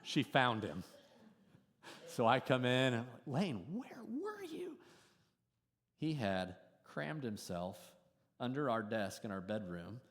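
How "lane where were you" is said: stern father. Retold or imitated. Father confronting hidden son.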